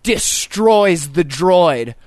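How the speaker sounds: very slow, low dramatic trailer voice; hammed-up ad slogan; mock ad announcer. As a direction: boom it like a movie trailer. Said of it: "They said".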